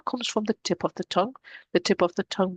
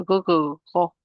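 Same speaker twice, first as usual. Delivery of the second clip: while gargling. Shown as a demonstration. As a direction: say go, go, go like gargling water. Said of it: "you tip your head at the back and you go".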